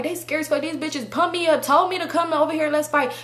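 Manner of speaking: high, ranting re-enactment without real volume; retold angry yelling. Cussing about the friends who pumped her up, mild retold yelling. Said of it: "yelling, I'm cussing and stuff like that".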